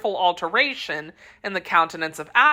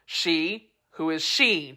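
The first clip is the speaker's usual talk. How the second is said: demanding; 4 dB quieter, slower than usual. Acted. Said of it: "demanded D'Artagnan".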